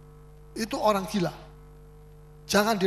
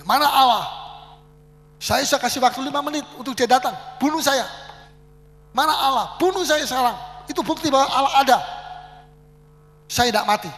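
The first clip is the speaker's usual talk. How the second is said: loud, higher, defiant challenge to God; hammed-up yell of a scoffer; madman's taunting shout; 4 semitones higher, 5 dB louder than usual. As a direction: bellow it like a raving madman daring heaven. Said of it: "ada orang gila berkata".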